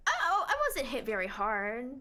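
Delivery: laughing it off; nervous laugh. Real, not acted. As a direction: brush it off with a laugh. Laughs off the car accident.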